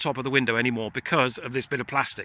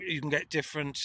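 talking around chewing gum; 6 dB quieter than usual. Real, not acted. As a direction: mouth full of chewing gum, words a bit softer. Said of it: "I've got chewing gum in my mouth".

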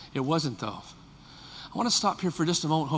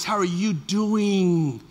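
gentle voice; much slower than usual. Shown as a demonstration. Pastor gently asking a member how they are. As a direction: ask it slowly and tenderly. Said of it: "Let me give you my voice".

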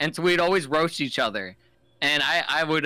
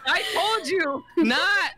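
lightly hammed-up taunt; a hint of a smug roaster; mock smug warning; 9 semitones higher than usual. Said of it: "retelling his warning to her".

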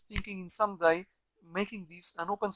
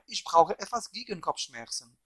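measured German with a careful accent. Shown as a demonstration. Showing viewers the phrase with an accent, deliberate German accent. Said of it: "German accent".

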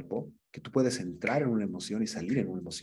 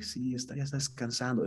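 softer, calm and settled; peaceful; 3 semitones higher, 4 dB quieter than usual. Shown as a demonstration. Mourner telling José the father rests, softly at peace. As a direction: let the grief ease into peace. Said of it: "pero como de paz".

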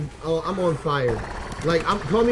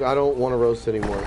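low, mopey mock sulk; lightly voiced sad kid; whiny sulking kid; 7 semitones lower than usual. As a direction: imitate a defeated kid giving up. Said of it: "he's like".

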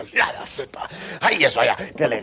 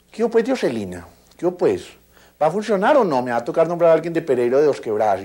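scolding first lady; 3 semitones higher than usual. Retold or imitated. Imita a la señora Milo regañando.

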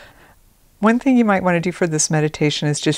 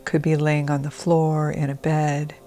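calm, measured trance-induction delivery; guided meditation; 4 dB quieter than usual. Acted. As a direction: gently settle the listener in, with unhurried pauses. Begins leading a guided meditation.

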